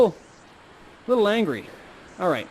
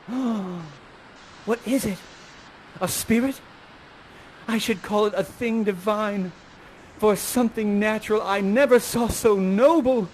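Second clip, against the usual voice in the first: lightly voiced Miranda, a touch higher; 4 semitones higher than usual. Feeding Miranda her lines as she steps out from the tree, lightly acted wonder. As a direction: say it as a wondering young heroine. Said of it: "you hear some noise, and you say".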